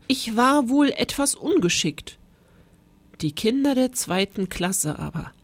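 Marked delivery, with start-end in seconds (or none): 0.1-2.2 sheepish. Acted. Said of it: "mit verlegenem Lächeln".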